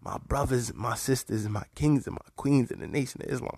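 trilled r in "brothers", "sisters" and "queens"; rolled r. Shown as a demonstration. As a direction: roll every R in "My brothers, my sisters". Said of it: "I'm rolling the R's".

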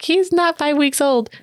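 imitating astonished relatives, high and slow; retold disbelief. Family's disbelief at big baby retold.

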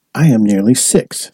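put-on a touch of a small boy's indignation; lightly voiced, mildly offended child; indignant. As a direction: protest mildly at being called too young. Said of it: "said Andrea indignantly".

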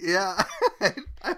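breathless, gasping laugh; hyperventilating. Real, not acted. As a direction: laugh while short of breath. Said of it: "You sound like you're hyperventilating".

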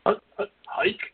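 high, breathy snap call; quarterback calling cadence. Pretend. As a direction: shout the hike like a quarterback. Joins the football snap call.

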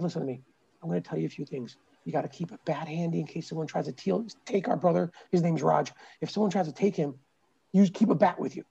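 hushed instructions. Retold or imitated. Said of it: "I'm like".

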